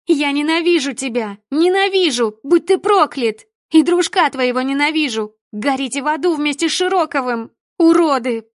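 screaming at the top of her lungs. Acted. Daughter dragged away, screaming curses at her father. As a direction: scream your hatred with everything. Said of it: "кричала во всё горло".

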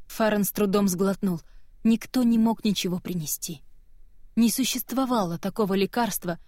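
usual speaking voice

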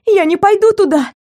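high, cracking voice, begging; breaking frightened cry. A narrator's reading. Captive crying out to kidnapper, voice breaking in fear. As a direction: plead in terror, voice breaking. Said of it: "крикнула срывающимся голосом".

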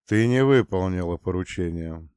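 ordinary delivery

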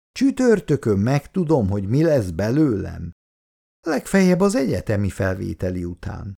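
mock-tragic, hammed-up despair; dramatic voice. Schoolgirl hamming up her exam fate, mock-tragic. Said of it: "drámai hangon kérdezte".

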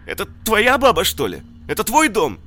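high, loud panicked begging; hysterical pleading. Acted. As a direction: plead for life, frantic. Мародёр в ужасе оправдывается. (истеричная мольба)

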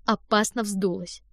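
plain reading voice

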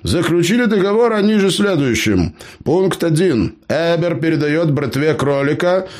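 put-on high-pitched cheeky old gnome. A narrator's reading. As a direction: play the crafty gnome, pitched well up. Gnome dictates contract.

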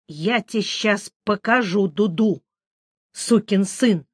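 ordinary delivery, nothing marked

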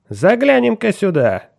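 high, loud, sharp cry; sharp loud call. Acted. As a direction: bark it out loudly. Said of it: "резким голосом объявил он".

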